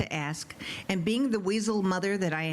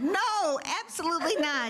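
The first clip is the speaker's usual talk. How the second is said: retold scream; 8 semitones higher than usual. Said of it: "I may have screamed loud enough".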